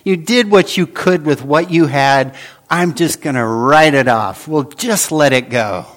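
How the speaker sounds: a lightly voiced easygoing king letting him off; mock lenient king. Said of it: "would just say to this slave".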